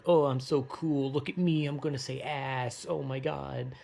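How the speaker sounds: lightly mocking wannabe-cool voice; mock show-off. Mocking people who swear to seem cool, lightly show-off. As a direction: imitate someone showing off how edgy they are. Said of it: "trying to be edgy or cool".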